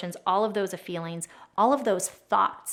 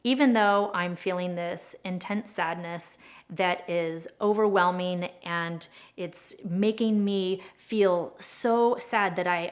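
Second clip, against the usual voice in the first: much slower, dragging, heavy with sadness; slow sad statement; slower than usual. Shown as a demonstration. Tapping coach demonstrating, slowed down and sad. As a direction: stretch the words as if about to cry. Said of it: "So as we're saying".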